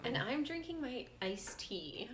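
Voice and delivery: slow, playful drawl; mock drawl. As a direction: stretch it out teasingly. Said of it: "Sorry, I said it like that".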